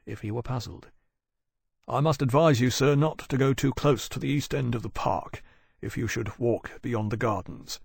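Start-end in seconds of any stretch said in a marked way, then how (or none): 1.9-7.8 politely cautioning a gentleman; a hint of a well-trained servant; lightly voiced servant. Voices Gavin advising Wolvey.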